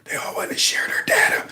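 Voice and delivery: soft unvoiced imitation of the whisper; hushed imitating whisper; mock whisper. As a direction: whisper it like the creepy clip. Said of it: "What did he say?".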